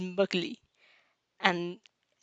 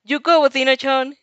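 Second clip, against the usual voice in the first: big cheering shout, louder; a loud, hearty cheer; hearty bellow; 5 semitones higher, 7 dB louder than usual. Acted. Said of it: "he bellows".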